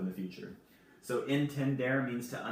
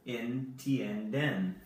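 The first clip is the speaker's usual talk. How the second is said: slow model word; much slower than usual. Shown as a demonstration. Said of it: "teacher models the conjugation".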